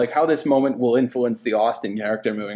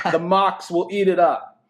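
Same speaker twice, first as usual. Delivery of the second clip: put-on Brooklyn accent; 5 semitones higher than usual. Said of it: "I do a nice Brooklyn accent".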